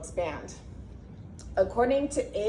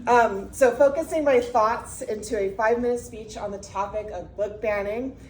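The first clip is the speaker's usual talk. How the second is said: projected, loud teacher voice; 4 dB louder than usual. Real, not acted. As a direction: speak up like addressing a classroom. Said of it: "so we'll just use my teacher voice".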